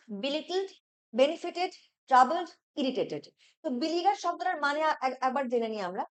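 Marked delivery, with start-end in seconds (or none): 0.1-3.2 slow option read. Shown as a demonstration.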